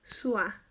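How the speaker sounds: "Su a" run together as one syllable, swa; merged syllable. Shown as a demonstration. Teacher demonstrating the reduction, "Su a" fused into one syllable. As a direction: glide "Su" straight into "a". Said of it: "en una sola".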